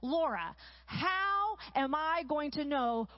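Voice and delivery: imitating an exasperated husband, drawn-out words; slow, mock-exasperated emphasis on each word. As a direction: act out a husband at his wits' end, slowly. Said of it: "he just sighs, this really big sigh".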